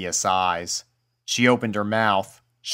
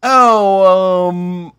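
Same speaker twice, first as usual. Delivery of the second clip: embarrassed; 9 semitones higher, 7 dB louder than usual. A narrator's reading. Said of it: "face turned to one of embarrassment".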